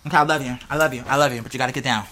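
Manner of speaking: tender coaxing. Real, not acted. Coaxing someone to get down.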